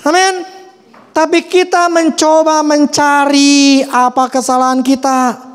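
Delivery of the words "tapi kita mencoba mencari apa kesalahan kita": slow earnest urging. Acted. Preacher urges self-examination.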